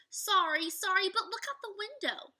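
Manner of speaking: put-on high, loud, eager girl; excited Annie. Teacher reading Annie excitedly apologizing, high and loud. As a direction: Annie bubbling over with the view.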